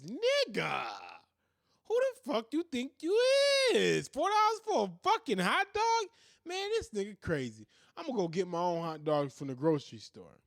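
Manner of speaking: hammed-up indignant yell at the seller; mock outraged customer. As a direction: act out an outraged customer over price. Mock angry black customer.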